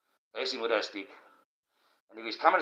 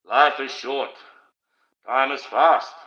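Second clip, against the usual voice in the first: louder, punchy declarations; emphatic motto; 2 semitones higher, 7 dB louder, slower than usual. Real, not acted. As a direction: hammer each short phrase home like a sermon. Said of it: "preaching a life motto".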